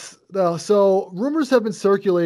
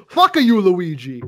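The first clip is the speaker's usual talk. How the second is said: mock snapped curse; 4 dB louder, slower than usual. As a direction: bark it at the brother. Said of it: "He says".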